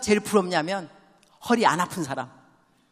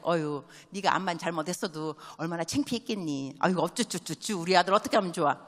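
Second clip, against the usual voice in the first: soft, cooing mother consoling her son; tender comforting parent; 4 semitones lower, 3 dB quieter than usual. Retold or imitated. Mother soothing her embarrassed son after school, softly cooing. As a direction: coo over the boy gently, a touch of baby talk. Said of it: "이렇게 말씀하셔야죠".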